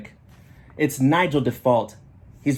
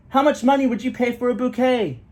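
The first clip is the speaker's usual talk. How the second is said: put-on high, loud boyish call; boy shouting a question to his father; yelling; 11 semitones higher, 3 dB louder than usual. A narrator's reading. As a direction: keep calling out to dad. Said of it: "Lander yells".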